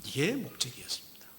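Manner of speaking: 속삭이듯 낮게 강조; whisper. Real, not acted. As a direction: lean in and whisper it. Sermon aside whispered. (설교 중 속삭이는 강조)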